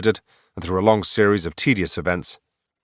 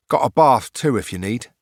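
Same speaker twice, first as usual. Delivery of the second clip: put-on young boy voice; 4 semitones higher than usual. Stable boy offers.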